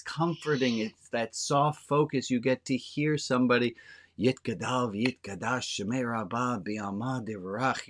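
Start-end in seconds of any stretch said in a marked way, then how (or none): 4.2-7.9 softly intoned Hebrew prayer, rhythmic and steady; rhythmical prayer recitation. Retold or imitated. Recalling the comforting prayer from childhood, a soft rhythmic recitation. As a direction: recite it like a familiar comforting chant. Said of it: "you get to hear this rhythmical".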